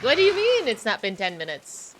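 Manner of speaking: mock disbelief at lost time; surprised. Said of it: "I am just like".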